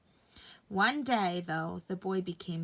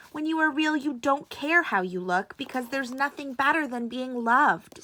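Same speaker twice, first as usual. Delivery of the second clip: put-on raised, louder old horse; an old toy horse explaining; wise old horse; 4 semitones higher, 6 dB louder than usual. A narrator's reading. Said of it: "said Old Horse".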